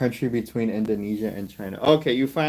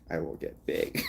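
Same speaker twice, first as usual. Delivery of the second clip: whispered vow; 8 semitones lower, 10 dB quieter than usual. Real, not acted. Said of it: "dude, I will get big".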